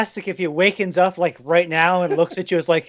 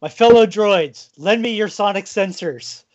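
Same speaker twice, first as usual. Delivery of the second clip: rallying speech. Acted. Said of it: "set you up to make your speech".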